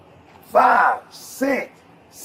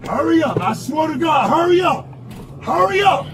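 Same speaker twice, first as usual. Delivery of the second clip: shouting; 5 semitones higher than usual. Real, not acted. Locked in car, yelling.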